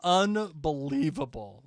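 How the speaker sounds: loud, slow playful exasperation; comic indignation; mock disbelief. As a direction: draw the word out in pretend outrage. Mock disbelief closing the rant.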